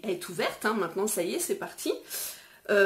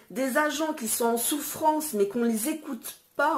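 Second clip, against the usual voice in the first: indignant; 5 semitones higher than usual. Real, not acted. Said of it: "mais c'est pas possible".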